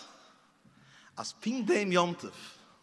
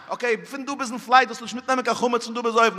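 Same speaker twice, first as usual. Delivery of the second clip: mother instructing; 4 semitones higher, 5 dB louder, faster than usual. Retold or imitated. Voiced mother instructing child.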